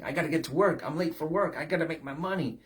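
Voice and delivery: rushed worried self-talk; anxious hurry. Retold or imitated. Preacher voices a worker rushing to work. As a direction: rattle off worries to yourself. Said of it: "you wake up and think".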